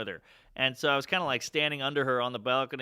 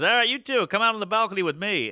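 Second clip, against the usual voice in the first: retold order; 6 semitones higher, 5 dB louder than usual. Old man orders the boys outside.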